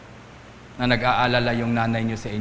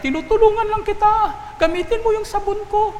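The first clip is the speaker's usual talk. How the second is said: very high, loud indignant outburst; exasperated shout, pitched way up; angry husband; 4 dB louder than usual. Acted. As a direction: yell back at the wife in a high-pitched huff. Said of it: "Nagalit siya".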